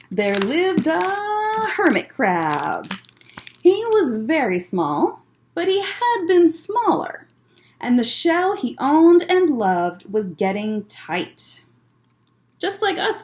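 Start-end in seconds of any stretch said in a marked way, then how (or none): 0.1-11.6 story narration. Acted. Reading the picture book aloud.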